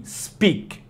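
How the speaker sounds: speak, the k barely sounded; model pronunciation. Shown as a demonstration. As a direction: speak with a weak final k. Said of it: "se fala assim".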